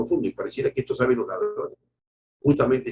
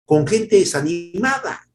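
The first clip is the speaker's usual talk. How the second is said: rising preaching fervor; 6 semitones higher, 3 dB louder, slower than usual. Acted. Preacher building to a climax.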